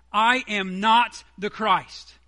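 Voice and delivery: "I am not the Christ" slow and loud, each word weighted; emphatic certainty. Retold or imitated. Preacher quoting John's denial to the Pharisees, "I am not the Christ" slow and emphatic. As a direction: declare "I am not the Christ" with heavy, deliberate stress on "I" and "not". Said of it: "certain emphatic certainty".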